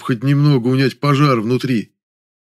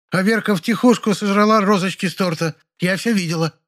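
put-on high, tattling old lady voice; a gossipy old woman telling on a girl; 10 semitones higher than usual. A narrator's reading. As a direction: sneak on someone with relish, pitched up. Polina tattles on Verka.

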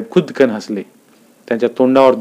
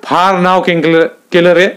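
mocking; 6 semitones higher, 3 dB louder than usual. A narrator's reading. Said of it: "तोंड वेंगाळून पण मंडलिक साहेब म्हणाले".

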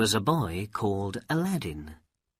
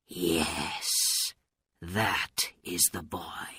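soft, lowered, half-whispered voice; quiet; 4 semitones lower, 5 dB quieter, slower than usual. A narrator's reading. Old man talking to himself about the boy, quietly. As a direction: murmur it privately, dropping to near whisper. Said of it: "he said quietly".

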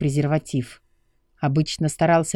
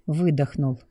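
usual speaking voice

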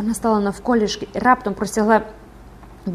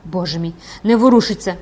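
mildly raised cry of alarm; 4 dB louder than usual. Acted. Gervaise seeing the recluse motionless, alarmed cry. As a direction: exclaim in dismay. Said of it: "зойкнула Жервеза".

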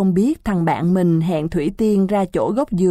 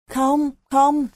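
flustered denial; 7 semitones higher than usual. Acted. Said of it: "lắc đầu quầy quậy, miệng rối rít".

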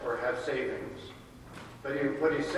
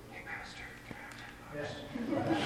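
put-on higher, soft little-kid voice begging cash; cheeky kid asking; 9 semitones higher, 9 dB quieter than usual. Kid asks pastor for ten bucks, soft and high. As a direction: sweetly ask the pastor for money. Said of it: "you can always come to me and I'll say".

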